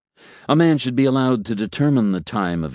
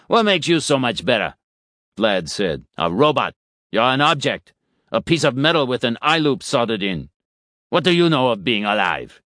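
scornful; 4 semitones higher than usual. Acted. Vlad berates the robot.

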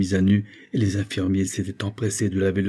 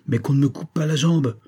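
higher, insistent plea; acted stubborn protest; desperate insistence; 6 semitones higher than usual. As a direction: plead to be spared, pitch raised. Wounded man refuses amputation, pleading.

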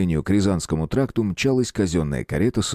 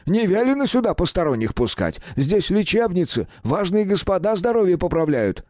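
pleading doorman; 10 semitones higher than usual. A narrator's reading.

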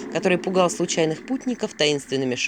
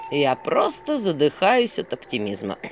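slow, deadpan owl irony; dry sarcasm; 3 semitones lower than usual. Acted. Owl answers Vasilisa's grim news, dryly sarcastic. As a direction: stretch out the mock optimism.

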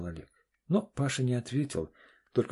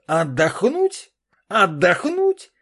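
медленно, высоко и громко, с нарастанием; переспроси, взрываясь от возмущения; взвился; 11 semitones higher, 12 dB louder, much slower than usual. Acted. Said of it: "взвился Олег". (муж взрывается на слова жены, громко и высоко)

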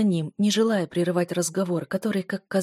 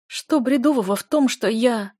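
pleading cry, pitched up and louder; raised, higher voice; 5 semitones higher, 6 dB louder than usual. Acted. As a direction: push it out high and hurt. Heroine protests emotionally.

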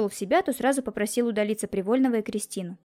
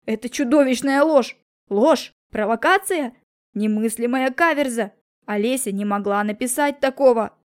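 shrill cry of outrage, louder and slower; outraged father, louder; high-pitched outburst; 5 dB louder than usual. A narrator's reading. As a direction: shout it out in a thin high voice. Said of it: "внезапно выкрикнул тонким голосом".

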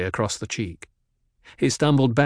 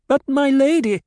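protesting doctor; 6 dB louder than usual. A narrator's reading.

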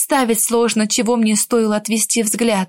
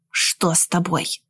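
slow, soft lowered question; whisper; 6 semitones lower, 5 dB quieter, slower than usual. A narrator's reading. Groom to bride at the altar, hushed whisper. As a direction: ask it under your breath, slower. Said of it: "спросил шёпотом".

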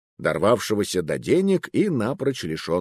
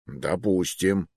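slow, haughty "Допустим"; 3 semitones lower, 3 dB quieter, slower than usual. Acted. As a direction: grant it with lofty disdain. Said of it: "высокомерно кивнул служащий".

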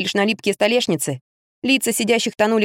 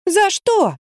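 high, sharp indignant question; outraged protest; 11 semitones higher than usual. A narrator's reading. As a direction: object hotly. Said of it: "возмутилась я".

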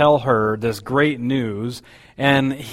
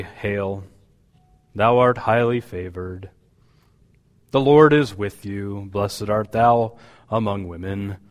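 boring voice; 4 semitones lower than usual. Shown as a demonstration. Preacher mocking a lifeless angel, bored monotone. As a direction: read it like a dull announcement. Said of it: "with this kind of boring voice".

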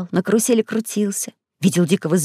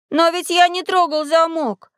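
оправдываясь; 9 semitones higher than usual. A narrator's reading. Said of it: "оправдывался Сергей".

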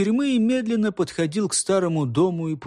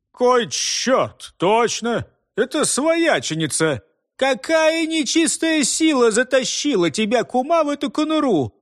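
higher, startled exclamation; astonished outburst; 7 semitones higher than usual. A narrator's reading. Village head finding his sister-in-law locked in, astonished. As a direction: blurt it out in disbelief.

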